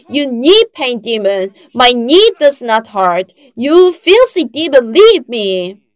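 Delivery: rising to a high, loud rebuke; retold shout. Pastor commanding the knee pain demon to leave, loud shout. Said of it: "So I shouted".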